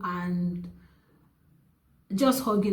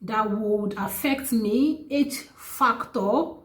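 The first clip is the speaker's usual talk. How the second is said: slow, high-pitched incredulity; retold disbelief; 3 semitones higher, slower than usual. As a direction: stretch it out in disbelief. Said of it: "I was like".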